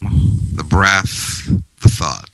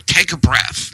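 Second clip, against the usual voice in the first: mocking "Take a breath" with a high snap; sarcastic; 9 semitones higher than usual. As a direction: toss off "Take a breath" dismissively. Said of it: "they say it sarcastically".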